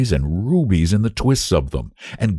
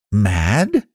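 lightly voiced cheerful boy; mildly chirpy question; 2 semitones higher than usual. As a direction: ask it brightly, rising at the end. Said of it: "asked Lionel cheerfully".

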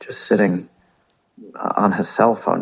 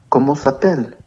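higher, hammed-up French accent; 6 semitones higher than usual. Asking the boy his name, mock French accent. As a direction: ask it with a mock French flourish. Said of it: "Just throwing a little French accent on it".

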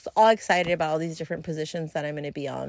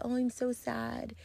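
mock sad; 6 semitones higher, 7 dB quieter, faster than usual. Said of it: "And I'm like".

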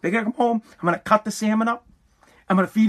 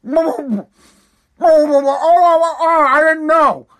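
loud, high drawn-out "oh" wail; hammed-up wail of dismay, stretched out; mock wailing from the kitchen; 6 semitones higher, 6 dB louder, much slower than usual. Mother-in-law calling back from the kitchen, mock wailing. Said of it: "you hear from the kitchen".

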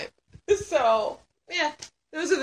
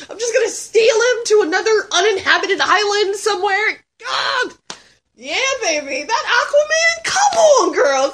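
giddy excitement; 5 semitones higher than usual. Real, not acted. Gushing about Jason Momoa.

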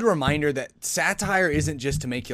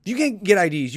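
incredulous retort; 6 semitones higher, 5 dB louder than usual. Real, not acted. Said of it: "retort to the patronizing quote".

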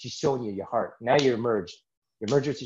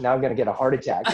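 quick joke through a laugh; joking fear of a heart attack; 2 semitones higher, 4 dB louder, faster than usual. Real, not acted. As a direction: laugh it out, fast. Joking about heart pain.

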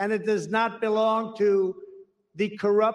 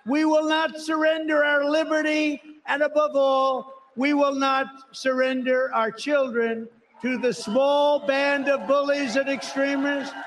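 roaring rallying speech; 4 semitones higher than usual. Real, not acted. Rally climax, crowd-rousing refrain.

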